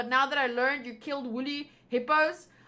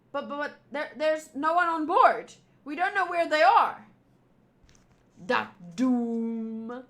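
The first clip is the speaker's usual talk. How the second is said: lightly acted soldiers and king, louder; voiced game characters; 3 dB louder than usual.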